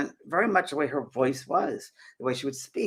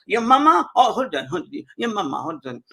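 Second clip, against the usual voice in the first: spirit replies to James asking for his mother, lightly voiced; 7 semitones higher, 6 dB louder than usual. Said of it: "And he goes".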